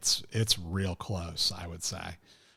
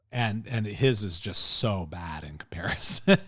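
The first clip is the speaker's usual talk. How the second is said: conspiratorial whisper, no voice at all; whispered aside. Real, not acted. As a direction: drop to a secret whisper to share the verdict. Confides that the accent is bad.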